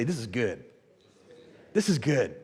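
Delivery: low, soft repeated refrain; catchphrase. Shown as a demonstration. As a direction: say it softly for the crowd to echo. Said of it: "Everybody just say".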